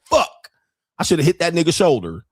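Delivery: frustrated self-curse. Retold or imitated. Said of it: "You're like".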